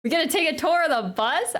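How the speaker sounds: high, rising disbelief on "bus"; amazed question. Real, not acted. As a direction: ask it as if you can't believe your luck. Repeats tour news as question.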